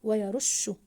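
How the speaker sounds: "ويرش" with the ش held long; stressed doubled letter. Shown as a demonstration. Teacher confirming the doubled shin, stressed doubled letter. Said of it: "حرف الشين مضاعف".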